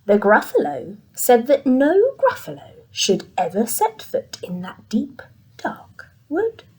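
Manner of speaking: hushed, spooky read for little ones; storytelling narration. A narrator's reading. Narrator drawing the children into the dark wood, hushed. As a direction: read it like a bedtime tale.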